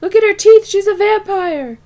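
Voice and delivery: high, loud frantic yelling; imitating a manic scream at a woman; retold scream. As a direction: scream it as an accusation. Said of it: "kept screaming".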